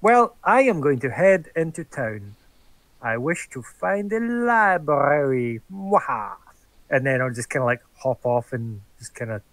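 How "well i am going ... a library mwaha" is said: lightly hammed scheming villain; mustache twirling villain. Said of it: "I should be like".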